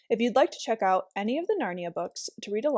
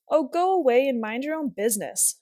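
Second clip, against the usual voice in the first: sharp, annoyed outburst; mild angry girl telling him off; temper; 3 semitones higher, 4 dB louder than usual. Acted. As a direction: snap it out in a temper. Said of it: "Jill suddenly flew into a temper".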